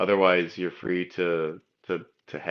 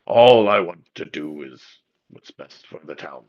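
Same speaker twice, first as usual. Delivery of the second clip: begrudging mumble; 3 semitones lower, 6 dB louder than usual. Acted. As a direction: concede it reluctantly, fading away. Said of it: "he kinda begrudgingly mumbles".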